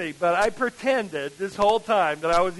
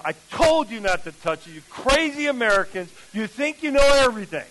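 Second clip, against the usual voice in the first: scolding; 3 semitones higher, 4 dB louder than usual. Retold or imitated. Translator scolding the preacher.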